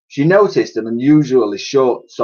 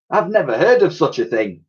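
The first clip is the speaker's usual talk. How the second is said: scoffing; 6 semitones higher than usual. Acted. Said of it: "scoffed Titch".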